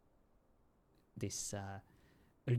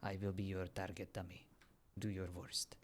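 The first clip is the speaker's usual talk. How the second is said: whisper; 2 semitones lower, 7 dB quieter than usual. Real, not acted. Offering himself as target dummy.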